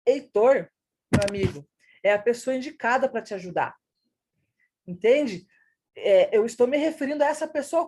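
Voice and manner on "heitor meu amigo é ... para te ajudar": Heitor called out, pause, "meu amigo" set apart by pauses; pauses around meu amigo. Shown as a demonstration. Teacher acting out speaking to a friend, meu amigo set off by pauses. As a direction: break before and after "meu amigo". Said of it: "e daí eu falo assim".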